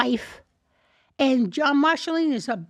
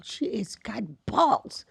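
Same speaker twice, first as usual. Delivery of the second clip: slow, whispery aside; hushed admiration; 3 semitones lower, 4 dB quieter, slower than usual. Retold or imitated. Actor praising a woman in class, slow whispered aside. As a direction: half-whisper it slowly, impressed. Retold remark by Max, hushed.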